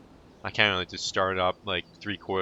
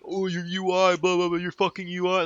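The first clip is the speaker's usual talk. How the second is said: higher mocking voice of a nitpicking commenter; 8 semitones higher than usual. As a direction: parrot the complainers with a sneer. Mocking commenters about his UI.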